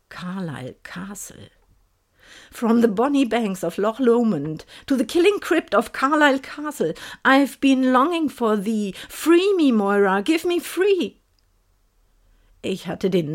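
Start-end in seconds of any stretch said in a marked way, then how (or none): 0.1-1.5 breathless, hushed echo; a whispered repeat, spooked. Acted. Awed echo of the name. 2.5-11.1 ghostly voice. Acted. Ghostly voice in her head.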